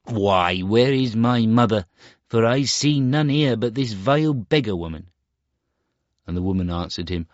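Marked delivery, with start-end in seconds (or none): 0.0-5.1 put-on higher, louder, disdainful boy; a vain boy scorning a beggar; proud Star Child. Star Child scorns the beggar woman, disdainful.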